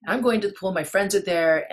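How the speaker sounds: re-enacted determined exit line; insistent announcement. Acted announcement, repeated after aside.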